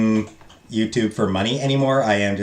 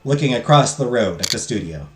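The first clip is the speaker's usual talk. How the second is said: steady storybook narration; calm narrator reading a mystery scene; story narration. Acted. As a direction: read the game's story like an audiobook. Reads visual novel narration aloud.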